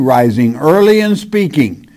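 measured, solemn Bible reading; scripture reading. Acted. Preacher reads Jeremiah to his congregation, solemn scripture reading. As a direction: read the verse out to the congregation.

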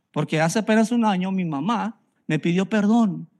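ordinary delivery

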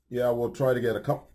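talking through hiccups; catching a hiccup mid-sentence. Real, not acted. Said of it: "I got the hiccups now".

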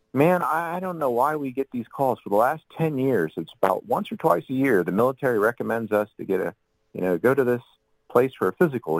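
exasperated doctor. Retold or imitated.

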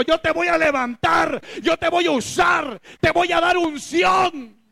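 high, ringing shout of God's promise; shouted divine promise. Acted. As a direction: thunder the promise over the church.

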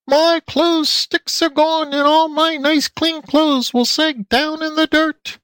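very high, slow squeal; high squealing pig voice; pig lady squeal. A narrator's reading. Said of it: "squealed the pig lady".

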